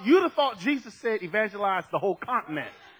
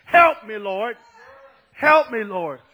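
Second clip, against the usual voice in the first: pleading cry; 7 dB louder, slower than usual. Acted. Dead sinner pleading with Jesus.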